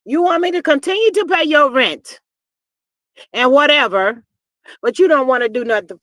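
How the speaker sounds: loud, emphatic retold confrontation; imitating angry boyfriend. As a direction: lay down the law as him, pausing between demands. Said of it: "So he told her".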